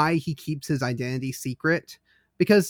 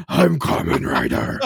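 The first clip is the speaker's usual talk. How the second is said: Christian Bale Batman voice; 8 dB louder, slower than usual. Retold or imitated. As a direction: growl it like Bale's Batman. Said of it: "gravelly kind of Christian Bale Batman".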